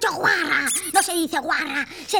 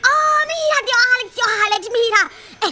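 put-on louder, eager child calling out; a kid tugging at his uncle, excited; 4 semitones higher, 4 dB louder than usual. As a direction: call tío Alex fast and thrilled.

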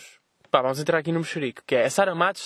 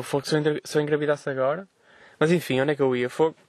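with hiccups. Real, not acted. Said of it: "Desculpa, estou com soluços".

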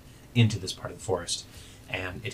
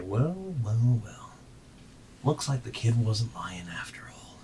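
rumbling voice; 5 dB quieter than usual. Acted. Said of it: "you hear a rumbling voice say".

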